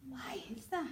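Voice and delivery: softly wondering aloud; puzzled daydreamer. Acted. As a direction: lift it into a soft, dim question. Repeats the daydreamer's puzzled line.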